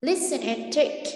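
slow. Shown as a demonstration. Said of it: "repeats instruction for pupils".

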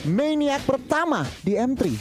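high, slow excited call; fighting game announcer. Real, not acted. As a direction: marvel at the play. Co-caster excited by the record.

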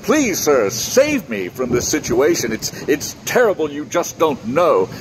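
a lightly voiced frog, begging politely; pleading frog. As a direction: plead like a trapped little frog, only slightly altered voice. Talking frog begs the tourist.

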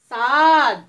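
صاد called out loudly; loud model letter. Shown as a demonstration. Teacher drilling children on the letter. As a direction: belt out صاد for the class to repeat. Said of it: "بغيت نسمعكم كيفاش غتنطقوها".

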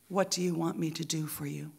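soft, tender question; loving, compassionate. Acted. Jesus stops and answers the blind beggar, lovingly. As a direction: ask softly, full of compassion. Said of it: "with all the love that is in him".

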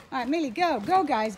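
high loud cheer; urging on. Real, not acted. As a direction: send them running. Sending dogs running.

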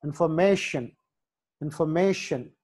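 ఇన్ఫర్మేషన్ with the stress on "may"; ఇన్ఫర్మేషన్, "may" stressed, then falling. Shown as a demonstration. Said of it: "ఎం దగ్గర వస్తుందన్నమాట".

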